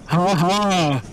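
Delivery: slow sneering monster voice; mocking inner voice. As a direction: sneer it slowly like a voice in his head. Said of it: "a voice going".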